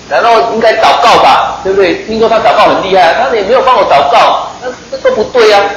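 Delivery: mock-indignant whine about being ignored; grumbling complaint. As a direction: play the offended general who expected a proper healing. Naaman grumbles about the prophet.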